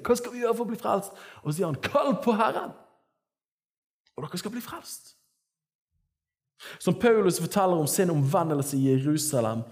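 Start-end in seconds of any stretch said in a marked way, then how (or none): 0.0-1.2 high-pitched, desperate plea; crowd crying out. Acted. Preacher voices the sinful crowd asking Peter, crying out. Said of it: "folket roper og er i totalt synde". 1.8-5.1 high, projected proclamation, fading off; calling out. Acted. Preacher voices Peter answering the crowd, calling out.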